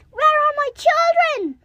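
high, tearful wail; crying out. Acted. Mother goat discovering her children gone, crying. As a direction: cry out for lost kids. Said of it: "Hearing the mother crying".

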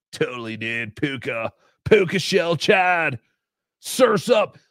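mock surfer-dude lingo voice; goofy surfer impression; Chad Zumock. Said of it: "Chad does not talk like a surfer".

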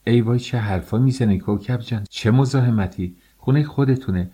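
oh-no-trouble-at-all politeness; effusive hospitality. Acted. Host politely protests, offering hospitality.

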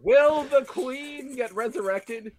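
ominous announcer. Pretend. Reading question to the babies.

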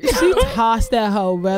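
laughing slowly through the words. Real, not acted. Telling friends her lunch got tossed, slow laughing.

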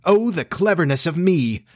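high, gloating exclamation; rapturous crowing. A narrator's reading. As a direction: crow over your own cleverness. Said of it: "he crowed rapturously".

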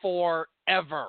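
very slow, word by word; drawn-out exasperation. Acted. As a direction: stretch each word out to drag. Complains cards drag, stretching each word.

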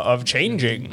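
unvoiced whispered aside. Real, not acted. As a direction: whisper it under the talk. Whispered aside while Katie leaves.

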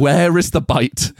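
slow, drawn-out demanding question; slow mock outrage. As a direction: drag it out like a cheated diner. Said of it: "And I was like".

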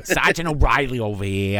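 lightly put-on Irish cop accent; mock Irish veteran cop. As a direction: play an old-school Irish police sergeant. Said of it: "your typical old school Irish cop".

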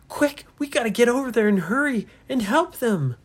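rally the crew, urgent and lifted; young captain calling his crew to help. Acted. Ryan urges rescue.

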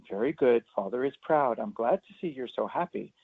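deadpan like a starchy Victorian father; a hint of a stiff formal father. Shown as a demonstration. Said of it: "you would never do that".

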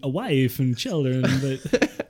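slow, halting Walken-style cadence; Jewish Christopher Walken. Retold or imitated. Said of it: "like a Jewish Christopher Walken".

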